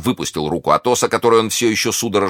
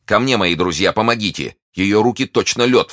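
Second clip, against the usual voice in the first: raised, urgent call for help; higher, pressing exclamation; alarmed cry; 4 semitones higher than usual. Acted. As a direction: call your friends in alarm. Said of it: "вскричал Д'Артаньян".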